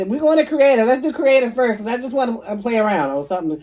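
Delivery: put-on high, loud kid voice; imitating kids. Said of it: "They say".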